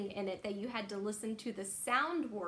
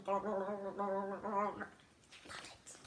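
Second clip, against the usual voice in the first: whispered; 4 semitones lower, 5 dB quieter than usual. Real, not acted. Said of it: "fond comment after reading".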